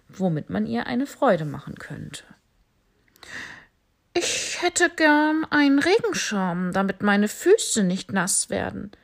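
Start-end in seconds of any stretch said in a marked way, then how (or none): 4.1-8.9 high, loud, eager bat voice. Acted. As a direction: play the odd little bat, delighted. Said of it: "sagte die Fledermaus". (hohe, laute Fledermausstimme)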